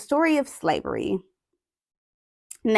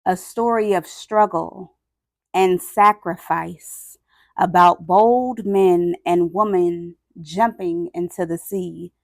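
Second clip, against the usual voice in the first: weighty, dramatic read-aloud with long pauses; solemn story narration; slower than usual. A narrator's reading. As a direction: tell the grim story phrase by phrase. Reads picture book aloud.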